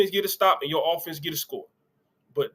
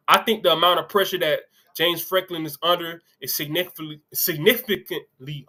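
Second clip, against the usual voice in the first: tripping over significantly, slowing down on it; reading Greg McElroy's quote to viewers, stumbling on significantly. Real, not acted. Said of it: "I'm sorry, I'm gonna start over".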